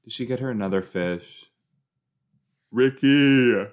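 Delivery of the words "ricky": loud, raised scolding cry; shocked exclamation. Real, not acted. Viewer calling out Ricky on screen, loud and scandalised. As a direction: call out the name in disbelief.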